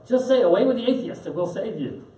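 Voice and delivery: high, coaxing empress voice with a push on "say"; imperious empress. Retold or imitated. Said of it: "finally the empress says".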